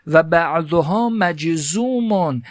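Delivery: teacher slowly voicing the Arabic example for students; slow recitation. Shown as a demonstration. Teacher to students, reading the Arabic text slowly. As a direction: read مثل ثاقبون slowly, each syllable drawn out.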